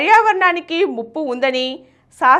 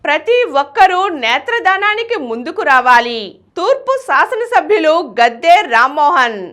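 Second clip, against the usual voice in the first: headline read; 2 semitones higher than usual. Acted. Story title over music.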